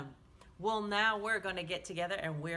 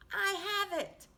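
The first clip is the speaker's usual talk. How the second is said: bright, louder eureka; sudden idea; 10 semitones higher, 6 dB louder than usual. A narrator's reading. Swimmy telling the little fish his plan, excited and louder. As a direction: burst out with the idea. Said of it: "then suddenly he said".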